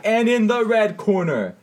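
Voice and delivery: big drawn-out ring announcer call, high and loud; slow booming "And in the red corner". Pretend. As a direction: announce it like a boxing MC bringing in a fighter. Boxing-style intro of guests.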